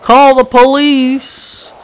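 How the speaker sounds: high, loud, drawn-out cry for rescue; hammed-up imitation of a man yelling slowly; mock screaming. Driver being arrested by police, mock screaming. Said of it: "the guy starts screaming".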